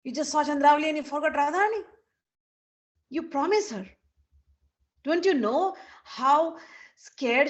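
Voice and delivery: indignant, emphatic reproach with rising questions; angry scolding. Acted. Saraswati scolding Krishna for forgetting Radharani, indignant. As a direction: take him to task, acted indignation. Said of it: "And Saraswati is angry".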